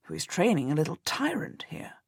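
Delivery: hushed, breathy whisper close to her ear; husband whispers a dry jibe to his wife, whispered. A narrator's reading. Husband murmuring into his wife's ear, whispering. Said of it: "wonders in my ear".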